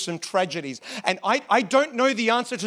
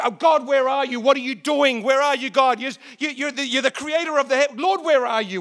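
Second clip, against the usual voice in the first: higher-pitched, half-hearted cry to God; mock hollering; 5 semitones higher than usual. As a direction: imitate pleading, hollering prayer without full volume. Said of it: "we're screaming and hollering".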